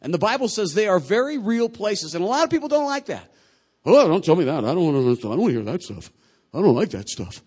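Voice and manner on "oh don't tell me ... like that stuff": put-on objection, brushing it away; hammed-up reluctant complaining; mock protest. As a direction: act the person who refuses to listen. Acts out people refusing to hear.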